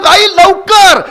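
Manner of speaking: put-on a boy's loud, high yell for his mother; impatient shout. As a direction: holler it across the house, out of patience. Boy shouts again, impatient. (आईला जोरात, उंच आवाजात हाक)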